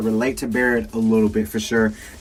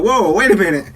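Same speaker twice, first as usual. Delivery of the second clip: high, disbelieving double-take; mock-astonished questioning, raised pitch; incredulous reaction; 9 semitones higher than usual. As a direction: act out baffled surprise, pitch jumping up. Acting out his surprised reaction.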